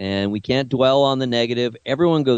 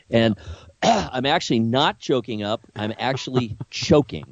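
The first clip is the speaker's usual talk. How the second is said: talking past a tickle in the throat; clearing the throat mid-sentence; something in throat. Real, not acted. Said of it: "I have something in my throat".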